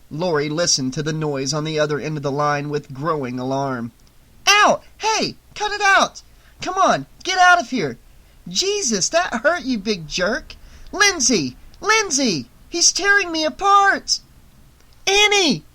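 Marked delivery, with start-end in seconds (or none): 4.5-14.2 high loud shrieking for help; panicked yelling. A narrator's reading. Dog attacks Annie. 15.1-15.7 high loud yell into the phone. A narrator's reading. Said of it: "Laurie yelled into the phone".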